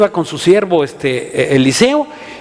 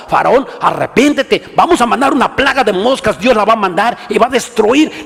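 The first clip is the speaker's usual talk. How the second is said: forceful authority; 3 semitones higher than usual. Retold or imitated. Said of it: "Les hablaban con fuerza y con autoridad".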